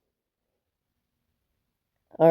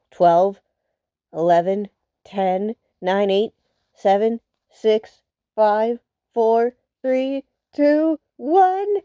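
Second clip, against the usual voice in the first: countdown; slower than usual. Real, not acted. New Year countdown in game.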